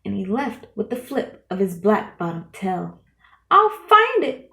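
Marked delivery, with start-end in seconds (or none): 3.5-4.5 much louder, higher determined cry; cried. A narrator's reading. Horton crying after the eagle, loud and high with resolve. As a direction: cry it out, refusing to give up. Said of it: "cried Horton".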